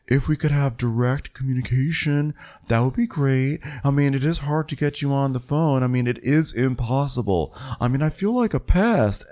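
lightly voiced housewife, complaining; imitating Kathy. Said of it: "And so Kathy's like".

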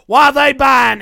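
high, loud mock outrage; baffled tourist. Tourist asking the guide why, high loud bafflement. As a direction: demand it like a bewildered tourist.

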